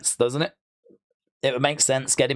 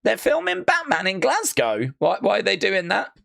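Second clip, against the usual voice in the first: incredulous; 4 semitones higher than usual. Real, not acted. Disbelieving repeat.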